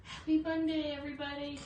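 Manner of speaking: upbeat hello to the viewers; bright greeting. Real, not acted. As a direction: greet everyone with a lift on Happy. Cheerful live greeting to viewers.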